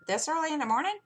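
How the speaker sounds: high-pitched, rising disbelief; incredulous question. Retold or imitated. Mother retells questioning her son.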